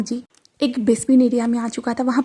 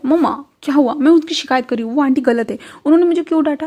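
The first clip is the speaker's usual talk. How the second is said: lightly voiced complaining girl; 3 semitones higher than usual. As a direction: tell on the teacher like an upset little kid. Daisy complains about her teacher.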